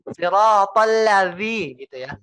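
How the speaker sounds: siratal ladzi with la rushed toward zi; slanted la. Shown as a demonstration. Teacher imitates the mistake of taking the zi too early. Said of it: "akan terjadi suara yang miring".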